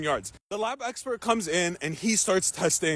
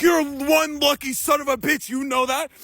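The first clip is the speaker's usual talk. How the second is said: retold amused officer; 6 semitones higher than usual. Officer acted, teasing relieved suspect.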